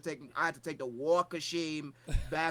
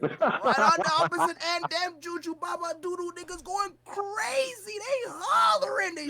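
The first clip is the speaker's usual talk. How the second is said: excited; 11 semitones higher, 5 dB louder than usual. Retold or imitated. Describing crazy crowd.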